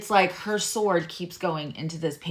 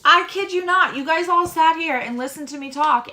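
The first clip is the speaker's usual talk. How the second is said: high, louder amazed telling; excited disbelief; 9 semitones higher, 6 dB louder than usual. Real, not acted. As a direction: gush it out in disbelief. Excited about the shuffled cards.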